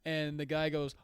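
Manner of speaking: usual speaking voice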